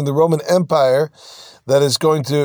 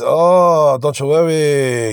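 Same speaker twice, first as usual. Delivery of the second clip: mock reassurance; 3 dB louder, much slower than usual. Quotes a reassuring reply.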